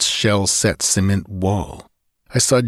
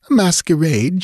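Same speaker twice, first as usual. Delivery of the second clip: higher, rising, hurt echo of the word; echoed in surprise; 8 semitones higher than usual. Acted. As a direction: repeat it back, stung and puzzled. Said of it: "she echoed".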